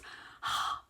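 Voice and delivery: audience gasp, acted out in one breath; voiceless mock gasp of suspense; imitated gasp. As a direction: gasp like kids at a cliffhanger. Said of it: "they'd gasp".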